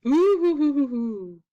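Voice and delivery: ghost hooting. Acted. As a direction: hoot like a spooky cartoon ghost, fading at the end. Spooky ghost noise.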